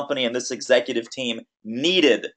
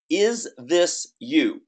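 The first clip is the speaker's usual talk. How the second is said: slow emphatic question; much slower than usual. Shown as a demonstration. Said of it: "repeated headline question".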